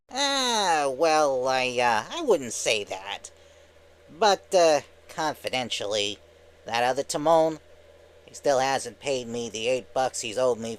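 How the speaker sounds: lightly voiced evasive cartoon wise guy; hedge, then confide a petty grudge; Timon. Skit voicing Timon.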